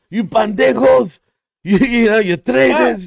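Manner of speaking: high-pitched mock outburst; hammed-up angry accusations, pitched high; imagined furious rant. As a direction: act out a wrestler losing it on his old partners. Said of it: "He starts going off".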